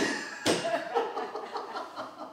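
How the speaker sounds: high, wheezy laughter trailing off; real amused laugh; helpless laugh. Real, not acted. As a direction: crack up at your own blunder. Laughs at his own blunder.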